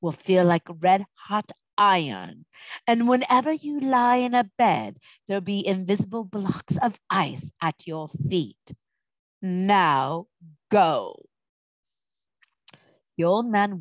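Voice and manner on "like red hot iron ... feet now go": slow, deliberate pronouncement of a curse; imperious witch's command, lightly voiced; commanding sorceress. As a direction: lay down the threat slowly, then dismiss them.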